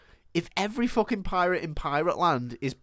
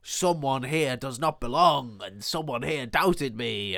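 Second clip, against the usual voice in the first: slow, lightly voiced pirate captain; a measured hint of a suspicious captain; Captain Hook; 2 semitones lower, slower than usual. Hook addressing his crew, slow and suspicious. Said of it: "And then he goes".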